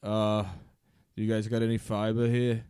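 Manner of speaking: lightly voiced Boston accent; a hint of Boston Rob. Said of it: "now talk about being constipated".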